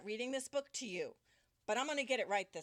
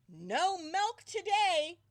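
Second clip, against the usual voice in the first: loud, slow anguished cry; 6 semitones higher, 8 dB louder, much slower than usual. A narrator's reading. Farmer Brown crying out over his cows' strike, loud and slow. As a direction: wail it like a desperate farmer. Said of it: "cried Farmer Brown".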